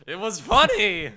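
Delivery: loud, high insistence, hitting "funny"; emphatic protest. Real, not acted. Storyteller defending prank to disapproving friend, loud insistent protest. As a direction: protest guiltily but at full volume.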